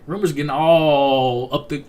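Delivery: normal talking voice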